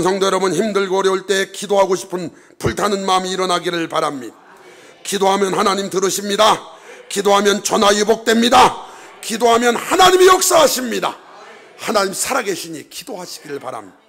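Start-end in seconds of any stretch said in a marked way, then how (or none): 5.0-11.2 full-force preaching. Real, not acted. Preaching exhortation building.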